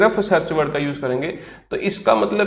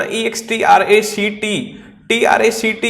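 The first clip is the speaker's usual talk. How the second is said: slow spelling; 3 semitones higher, slower than usual. Shown as a demonstration. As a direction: spell it out letter by letter. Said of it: "word को ध्यान से देखोगे".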